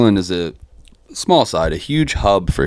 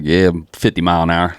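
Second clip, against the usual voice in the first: lightly put-on Southern twang; casual mock Southern accent; Southern NASCAR drawl. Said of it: "watching too much nascar content".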